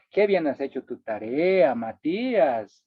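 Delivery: mock compliment to a lazy student; sarcastic praise. Shown as a demonstration. Teacher mocking a student who skipped homework, sarcastic. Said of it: "He dicho que no ha hecho su tarea".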